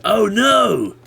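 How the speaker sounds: rising, loud, high panicked cries; panicked yelp. Real, not acted. Yelping in panic as a mob rushes at him. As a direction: scramble in alarm.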